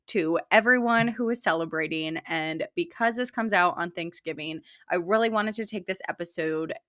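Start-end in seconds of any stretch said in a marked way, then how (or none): 4.9-6.7 slight accidental Canadian accent; a hint of Canadian vowels. Real, not acted. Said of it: "I just said that in a weirdly Canadian accent".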